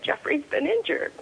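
crying. Retold or imitated. Mother telling her daughter the son is hurt, crying. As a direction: voice breaking high through tears. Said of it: "and I was crying".

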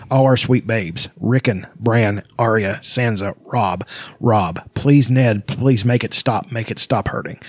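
lightly dramatic reading aloud, slightly low; story narration. A narrator's reading. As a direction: read the tragic passage gravely, without character voices. Reads novel passage aloud to friends.

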